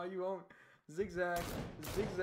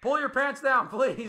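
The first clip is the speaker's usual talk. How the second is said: loud plea; 4 semitones higher, 9 dB louder than usual. Real, not acted. Pleading with teammate loudly.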